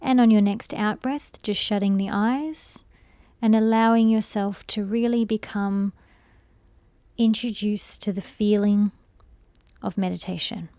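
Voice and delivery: soft, calm meditation voice with long pauses; unhurried, hushed guidance through breathing; guided meditation. Real, not acted. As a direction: gently guide a listener into stillness, letting phrases trail softly.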